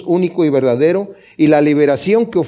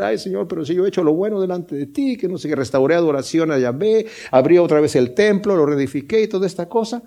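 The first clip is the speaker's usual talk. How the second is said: mildly voiced tearful plea, softer and quick; crying king; 3 dB quieter than usual. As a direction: lightly act the king pleading through tears. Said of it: "el rey se pone a llorar".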